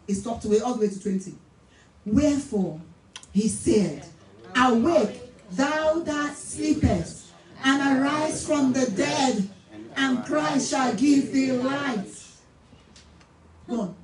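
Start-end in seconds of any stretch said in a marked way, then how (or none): 2.1-12.1 slow, declamatory Bible reading; solemn reading to a congregation; scripture reading. Real, not acted. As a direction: proclaim each phrase with long, weighty words. Reads scripture aloud.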